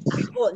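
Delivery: "argot" with guttural French r, no final t; French-accented "argot"; French pronunciation. Shown as a demonstration. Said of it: "perdón, argot".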